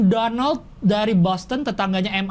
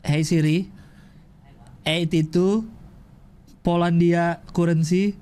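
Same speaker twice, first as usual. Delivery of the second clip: voice command; 3 semitones lower, much slower than usual. Real, not acted. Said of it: "repeats slow phone command".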